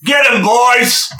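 loud, high bellowing monster boss; shouted outrage, last words drawn out; angry Minotaur. Acted. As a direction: roar the order to your gang. Voices angered Minotaur ordering attack.

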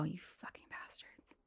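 whispered swearing under the breath; muttered curse. Acted. New Yorker to tourists walking five abreast, whispered curse. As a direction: curse them very quietly, slowly.

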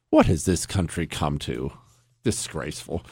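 low, soft, deadpan mock outrage; mock disgust. Host mocks soft mobsters with low deadpan disgust. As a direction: sigh it like a disappointed old man. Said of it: "mock outrage".

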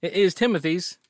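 playing a confused Southern restaurant hand; Southern accent. Ted protesting to his brother Timothy, loud Southern accent. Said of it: "why we're doing Southern accents".

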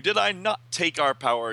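a hint of a boastful villain; Mordru. Villain Mordru boasting to the teachers, mild. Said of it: "and Mordru says".

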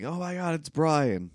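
high-pitched mock excited yell; imitated kid's yell. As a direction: squeal it like an overexcited little kid. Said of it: "he jumps up and yells".

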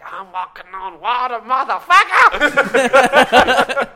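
gloating mock yell that builds and stretches out; slow boast exploding into a high, drawn-out shout; Jesus. Jesus bragging in his mind on the water, building to mock yell. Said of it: "He's in, in his mind, he's like".

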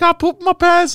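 very high, loud mock wail; tearful confession, played for laughs; imitated crying. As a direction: bawl it out like a miserable kid, hammed up. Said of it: "she saw me crying".

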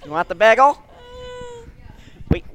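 high, loud fussing Jewish relative; hammed-up, high Jewish family voice; Jewish family impression. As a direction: push food on them like a fussy relative. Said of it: "This is everyone in my family".

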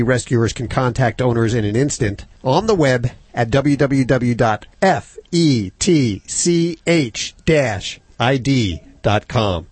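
breathless, running short of air; out of breath, slowing through the letters. Real, not acted. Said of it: "I'm sorry, I'm out of breath".

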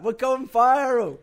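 high, loud, slow crow of triumph; mock excitement. Bandmate imagining a drunk poster, loud mock-triumphant cheer. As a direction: crow it out with put-on glee.

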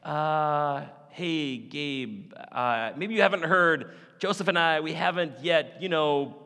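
put-on a teen girl hedging awkwardly with the angel; imitating Mary. Young Mary awkwardly explaining to angel Gabriel. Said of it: "And she's like".

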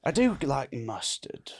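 understated fancy English. Acted. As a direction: make genteel small talk in posh English. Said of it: "Is this fancy English".

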